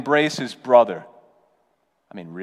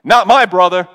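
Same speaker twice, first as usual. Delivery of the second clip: louder bitter "Not my brother", MY punched; bitter retort; 5 semitones higher, 9 dB louder than usual. Retold or imitated. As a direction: spit out the rejection of the brother. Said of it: "He's bitter".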